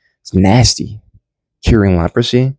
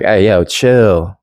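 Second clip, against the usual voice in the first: Jesus calming the storm, slow chill; much slower than usual. Retold or imitated. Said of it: "He's like".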